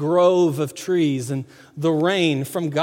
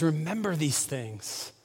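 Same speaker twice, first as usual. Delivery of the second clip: softer and slower, dwelling on each word; soft, reflective; 8 dB quieter, slower than usual. Shown as a demonstration. Pastor echoing God's plea to the congregation, soft and slow. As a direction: let "Remember these things" fall quiet and slow.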